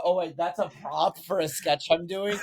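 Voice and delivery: laughing through a sheepish excuse. Retold or imitated. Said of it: "I go".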